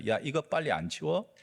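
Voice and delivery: angry shout. Acted. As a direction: snap at the rival to move the foot away, rising to a high yell on 가져가. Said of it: "노발대발하면서 소리를 지릅니다".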